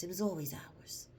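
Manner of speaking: hushed, breathy whisper. Real, not acted. Confiding to viewers about their culture in a whisper. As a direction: let it drop to a whisper. Repeats claim, then whispers it.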